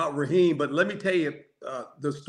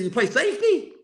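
higher-pitched quizzical question; puzzled guessing; 8 semitones higher than usual. Retold or imitated. Player guesses a new teammate's position, puzzled. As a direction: lift it high as a doubtful guess.

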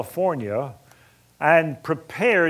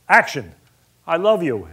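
directorial call; 3 semitones higher, 6 dB louder than usual. Retold or imitated. Director calling action on set.

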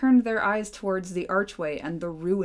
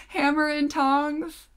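slow, higher, incredulous Hammer and tongs; amused disbelief; 8 semitones higher, slower than usual. Real, not acted. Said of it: "Is that how dwarves say".

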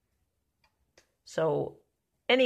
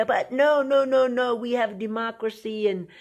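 high, louder protesting mock voice; mocking the naysayers; 3 semitones higher, 5 dB louder than usual. Preacher mocking people who defend the country, in a high loud mock protest. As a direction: parody a defensive patriot, raised and loud. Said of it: "Oh, people are gonna say".

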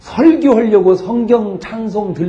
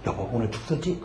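sheepish husband; 7 semitones lower, 13 dB quieter than usual. Retold or imitated. Sheepish husband retold to wife.

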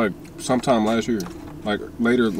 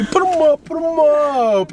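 high, drawn-out boxing taunt; mock fight taunt; 3 dB louder, slower than usual. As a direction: dare them to fight, hammed up. Playful fight challenge.

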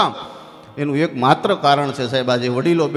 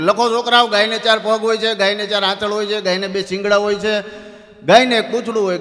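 dictating teacher; 5 semitones higher than usual. Retold or imitated. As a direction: spell it out for the class to write. (વર્ગને લખાવતો શિક્ષક, મોટેથી)

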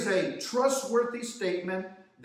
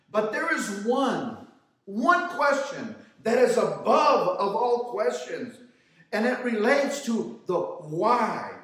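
ringing rhetorical questions to a congregation; emphatic preaching; 3 semitones higher, 4 dB louder than usual. Real, not acted. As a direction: preach it with drawn-out key words.

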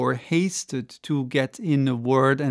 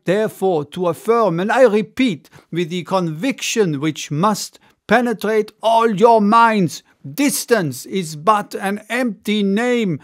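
a bold orator holding forth, a bit higher and louder; orator's speech; 5 semitones higher, 4 dB louder than usual. Acted. Ardan lecturing the assembly, confident and rousing. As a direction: declaim to the crowd with growing conviction.

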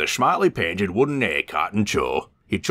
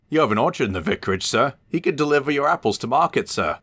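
pleading; 9 semitones higher, faster than usual. A narrator's reading. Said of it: "Edward pleaded".

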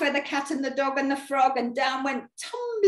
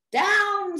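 high witch's order to descend; commanding call; 10 semitones higher, 4 dB louder than usual. Acted. Witch to her passengers after dropping the wand, commanding call.

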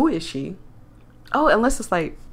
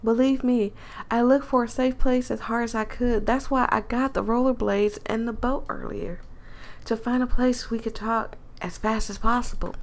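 lightly acted country accent; a mild country twang; 2 semitones higher than usual. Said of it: "I'm losing the country accent".

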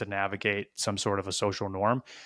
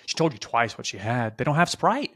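exasperated rant; 2 semitones higher than usual. Retold or imitated. Inner rant at the resident.

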